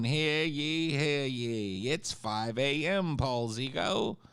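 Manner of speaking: high mock town crier proclamation; mock royal decree. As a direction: proclaim it like a herald. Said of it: "No town criers".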